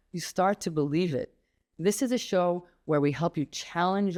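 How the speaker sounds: polished host opener, read to the listener; podcast intro read. Acted. Host introducing her show to listeners, promo read. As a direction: sell the show like a radio promo.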